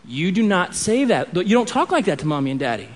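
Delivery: put-on serious talk with your child; a hint of a stern father; quiet stern talk. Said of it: "I pull him aside and I say".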